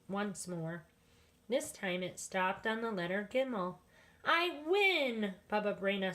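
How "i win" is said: high, louder triumphant cry; excited win. Acted. Baba Brena wins the dreidel game, high and gleeful. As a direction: crow with delight at winning.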